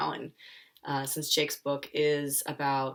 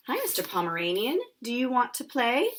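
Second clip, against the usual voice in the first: louder, bright call to a new friend; eager friendly greeting; 8 semitones higher, 5 dB louder than usual. Acted. Jake greeting the neighbor's dog, eager and loud.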